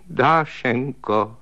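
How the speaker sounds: slow, drawn-out whimpering call of her name; tearful call. Acted. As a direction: plead with her like a frightened child. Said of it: "řekl plačtivým hlasem".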